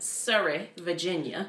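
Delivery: lightly put-on Southern accent; thick Southern accent. Shown as a demonstration. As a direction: say it with a Southern drawl. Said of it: "if you have a thick Southern accent".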